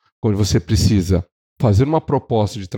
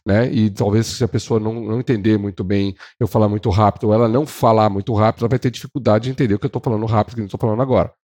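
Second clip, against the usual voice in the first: quick demonstration of rapid speech; fast talking; faster than usual. Shown as a demonstration. Trainer showing salespeople how a fast talker sounds, rapid. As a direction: rattle it along to show fast speech. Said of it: "eu posso falar rápido".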